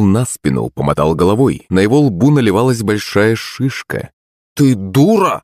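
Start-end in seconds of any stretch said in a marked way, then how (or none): 4.5-5.4 put-on angry yell at a girl, voice high; angry shout. A narrator's reading. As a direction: snap it out in anger. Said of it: "злобно закричал он".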